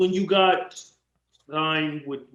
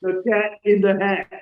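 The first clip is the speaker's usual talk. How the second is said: mock reading, laughing; 4 semitones higher, slower than usual. Mocking scripted wrestling promos as a kids' book, laughing. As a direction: recite it high and giggly like a kids' book.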